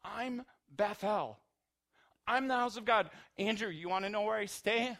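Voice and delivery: impassioned Jesus voice. Retold or imitated. Preacher voicing Jesus to his friends, loud and impassioned. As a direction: proclaim it as if revealing yourself. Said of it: "Jesus is saying".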